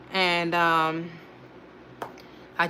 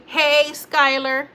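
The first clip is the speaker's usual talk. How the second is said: sing-song greeting; 5 semitones higher, much slower than usual. Shown as a demonstration. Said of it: "Everybody say".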